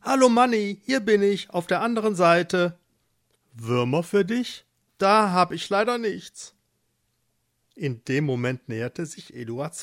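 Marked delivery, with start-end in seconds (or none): 0.0-6.5 higher-pitched cheerful farmer; friendly farmer. Acted. Eduard greets the nearly blind mole, friendly higher voice. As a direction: call out brightly to a friend.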